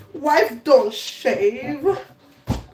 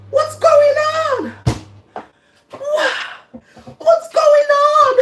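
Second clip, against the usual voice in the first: much higher, louder panicked what's going on; high panicked shouting; high alarmed shout; 12 semitones higher, 4 dB louder than usual. Retold or imitated. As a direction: cry out in a panic. Husband voiced, shrill alarm.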